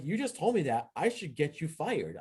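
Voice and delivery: high, emphatic retold warning; indignant threat. Team captain warning referee he could be fired, indignant. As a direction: recount the threat with pitch swinging high.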